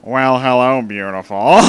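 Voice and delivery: lightly voiced Squidward, barely shifted; Squidward impression. Creature greets smitten Dampé, hinted Squidward voice. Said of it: "do my best Squidward impression".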